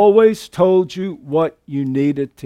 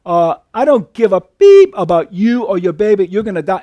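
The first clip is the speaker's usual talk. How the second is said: harsh threat; 4 dB louder than usual. Retold or imitated. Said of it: "And Susan Atkins says".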